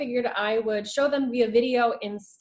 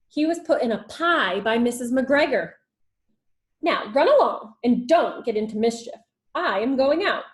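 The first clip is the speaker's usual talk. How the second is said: louder, firm mother rabbit; mother rabbit warning; 5 dB louder than usual. Acted. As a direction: warn the children before leaving. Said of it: "said old Missus Rabbit".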